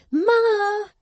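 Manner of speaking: high, drawn-out bawl. A narrator's reading. Lavvy calls her mother to the door, bawling. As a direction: bawl it into the house, slowly. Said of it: "and then bawled".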